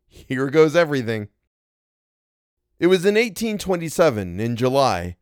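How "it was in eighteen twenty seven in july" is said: slightly lifted, measured reading voice; story narration. A narrator's reading. Narrator recounting regiment days, story narration. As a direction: tell it as an old-fashioned tale.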